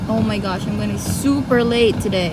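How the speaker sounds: exasperated. Real, not acted. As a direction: groan about being late. Late, stuck in snow.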